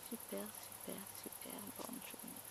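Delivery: very soft, fading to a whisper. Real, not acted. Vlogger recapping her day, hushed whisper. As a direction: breathe the words out.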